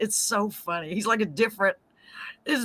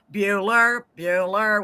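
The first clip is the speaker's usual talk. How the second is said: Bueller teacher voice; slower than usual. Retold or imitated. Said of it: "the teacher that always says".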